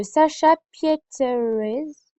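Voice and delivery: English name in a French accent, drawn out slowly; slow, careful French-accented pronunciation. Real, not acted. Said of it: "Excusez-moi pour mon accent anglais".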